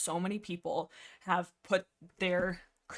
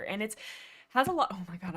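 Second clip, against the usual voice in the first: out of breath. Real, not acted. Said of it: "I'm out of breath 'cause I'm nervous".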